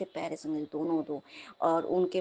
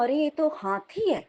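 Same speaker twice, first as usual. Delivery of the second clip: higher, drawn-out gasp of disbelief; retold amazement, stretched out and raised in pitch; astonished; 5 semitones higher, 3 dB louder than usual. Dreamer spotting an elephant at the window, astonished.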